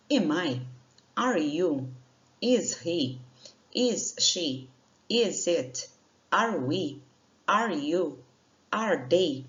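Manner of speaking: each pair lifted as a question; question intonation. Shown as a demonstration. Teacher models question tune for students. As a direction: ask each one like a real question. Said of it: "essa entonação aí por ser uma pergunta".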